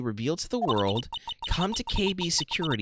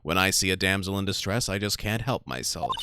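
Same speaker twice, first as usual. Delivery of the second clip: a lightly lowered narrator voice; 3 semitones lower than usual. Acted. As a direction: read it like a calm narrator. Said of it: "I'm just going to use my narrator voice".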